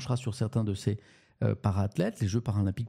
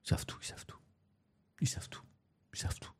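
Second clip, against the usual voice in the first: whisper; 10 dB quieter, faster than usual. Pretend. Playful aside about knowing chat.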